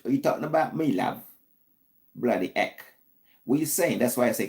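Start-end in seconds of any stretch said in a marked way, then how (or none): 0.0-2.8 mock British accent. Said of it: "I'm trying to talk British language".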